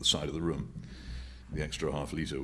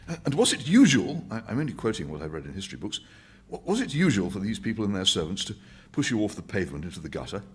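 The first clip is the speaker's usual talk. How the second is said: higher, earnest and persuasive; Winston's voice; 4 semitones higher, 5 dB louder than usual. Acted. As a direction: press the point to the old man.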